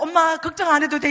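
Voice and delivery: 안 해도 돼 called out loud and joyful; loud, thrilled "엄마 걱정 안 해도 돼"; excited reassurance. Retold or imitated. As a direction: shout the good news to mom. Daughter's excited letter retold.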